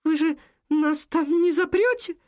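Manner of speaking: put-on high, frightened girl pleading; plaintive girl. A narrator's reading. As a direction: beg not to be locked in, scared. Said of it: "жалобно спросила девочка". (высокий жалобный испуганный голос девочки)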